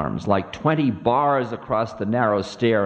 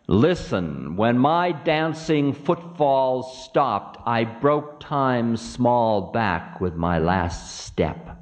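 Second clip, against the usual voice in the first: boastful Ravana; slower than usual. Acted.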